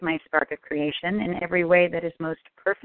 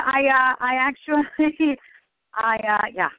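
breathless whispered "I, uh"; whispered aside; 5 semitones higher than usual. Real, not acted. Caller whispering while still laughing. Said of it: "whispered aside".

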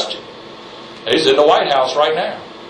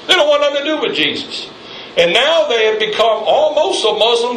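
fired-up preaching; 7 semitones higher than usual. Real, not acted. Preacher denouncing France.

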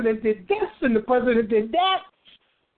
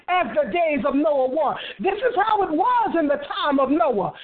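raised, insistent sermon cadence; urgent preaching; 4 semitones higher than usual. Real, not acted. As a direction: press the congregation with urgent appeals. Urges congregation in sermon.

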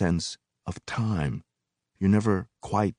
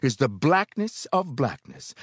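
shouting preacher; 10 semitones higher than usual. A narrator's reading. Preacher addressing brothers and sisters, shouting. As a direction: announce the text like a preacher. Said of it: "the preacher shouted".

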